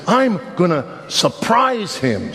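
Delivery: slow, knowing repeat of the pastor; mock deacon echo. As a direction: drawl it back slowly, deadpan. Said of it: "He said".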